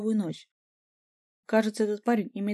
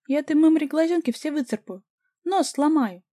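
high, loud shrill wailing threats; 8 semitones higher, 6 dB louder than usual. A narrator's reading. The girlfriend wails threats against Vika, high and loud. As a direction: lament and threaten at once. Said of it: "прочитала подружка".

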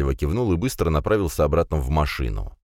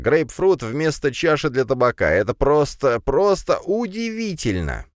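high, stretched-out gush of wonder; gushing amazement; 10 semitones higher than usual. Acted. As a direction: marvel at it, pitch climbing and slowing at the end. Hookah enthusiast gushing over grapefruit bowl.

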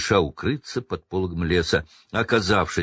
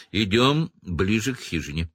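ordinary delivery

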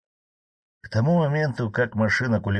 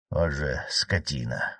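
hissed curse; 4 semitones lower, slower than usual. Acted. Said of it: "зашипел Владимир".

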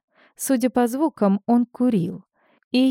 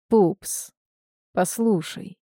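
выдохнул; 3 dB quieter, slower than usual. A narrator's reading. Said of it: "выдохнул".

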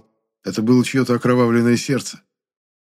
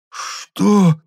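croaked; 11 semitones higher, 5 dB louder than usual. A narrator's reading. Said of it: "прохрипел толстяк".

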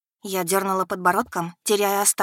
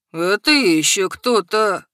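put-on drunken shout; 5 dB louder, slower than usual. A narrator's reading. Drunk challenges dragon aggressively.

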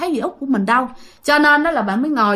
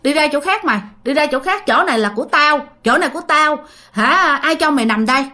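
higher-pitched, mildly scolding grandmother; shooing away; 3 semitones higher than usual. Retold or imitated. Ghost grandmother chases aunt off her sleeping spot, scolding. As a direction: shoo them off with mock indignation. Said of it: "bà ngoại đang kéo chân dì Út mà đang đuổi".

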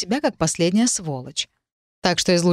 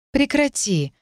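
through teeth; 8 semitones higher, slower than usual. A narrator's reading. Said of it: "процедила я".

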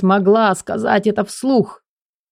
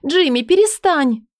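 Элли's voice; 10 semitones higher than usual. Acted. Элли higher.

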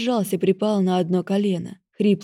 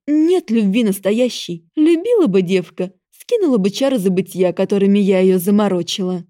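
hissing goddess; 2 semitones higher, 5 dB louder than usual. Acted. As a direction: hiss it out with venom. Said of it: "зашипела, словно змея".

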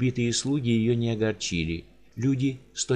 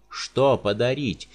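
giant's cry; 4 dB louder, much slower than usual. Acted. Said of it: "вскричал Рауль".

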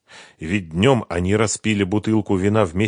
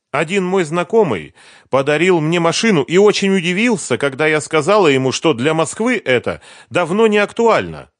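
put-on higher, louder lively young woman; eager young woman recalling Kiev; Sveta's voice; 10 semitones higher, 6 dB louder than usual. A narrator's reading. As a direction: chatter it brightly as Sveta.

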